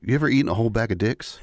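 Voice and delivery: fast, slick pitch, laughing through it; salesman voice. Pretend. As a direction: sell it like a pushy salesman. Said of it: "the whole, like, salesman voice".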